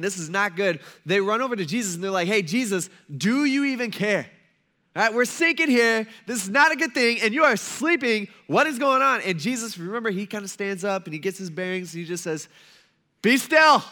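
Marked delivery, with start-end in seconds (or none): 2.3-9.2 loud, raised, indignant panic; freaking-out disciples. Acted. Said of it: "they're freaking out so much". 13.2-13.8 loud, high, forceful command; commanding yell. Acted. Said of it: "Jesus kinda yells at him".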